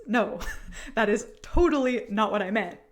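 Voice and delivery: laughing while protesting; giggling through the words. Real, not acted. Laughing at the silly misunderstanding.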